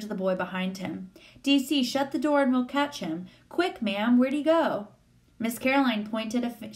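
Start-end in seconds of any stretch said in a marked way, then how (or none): 1.4-4.9 put-on high, urgent boy's questioning; rally everyone to the chase in a raised pitch. A narrator's reading. Boy urgently chasing the creature.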